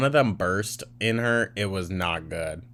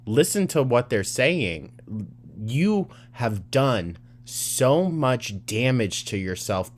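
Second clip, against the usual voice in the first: real indignant rebuke; exasperated scolding. Real, not acted. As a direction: lay into her, punching the stressed words. Scolding Amber over her complaint.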